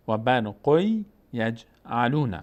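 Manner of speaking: slow قوی یجعلون with a held y; tanwin merged into ya. Shown as a demonstration. Teacher repeats the correct recitation, slow held y in قوی. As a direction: let قوی run into یجعلون without any n.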